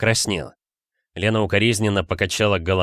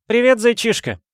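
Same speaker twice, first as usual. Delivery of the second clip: high, bright-pitched coaxing friend; a much higher, teasing female voice; Valentina voice; 14 semitones higher, 5 dB louder than usual. A narrator's reading.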